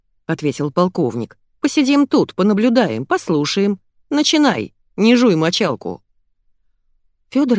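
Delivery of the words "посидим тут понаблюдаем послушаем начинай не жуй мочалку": gruff colonel. Acted. Colonel orders the swindler.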